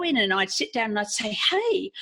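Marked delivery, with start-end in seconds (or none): 1.5-1.9 bright greeting jumping up in pitch; eager patient walking in with a new idea; chirpy eager hey. Retold or imitated. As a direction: pop up on hey like you've had a great idea. Retelling eager visit to doctor.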